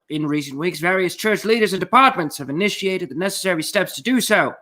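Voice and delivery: put-on old-time radio announcer voice; 1930s announcer. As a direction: read it like a vintage newsreel. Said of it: "I wanted to sound like a nineteen thirties announcer".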